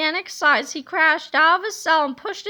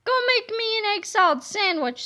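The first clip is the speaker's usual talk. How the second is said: higher, bossy prisoner demand; bossy villain; 6 semitones higher than usual. Acted. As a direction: order it like he still runs things. Villain orders warden.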